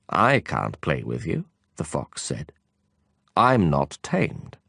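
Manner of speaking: low, slow fox reply. Acted. The fox turns down the prince's play, low and slow.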